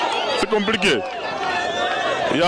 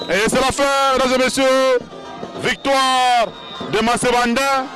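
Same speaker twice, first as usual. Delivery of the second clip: excited victory call; 3 semitones higher than usual. Acted. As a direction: proclaim the victory to the crowd. Announcing the winner.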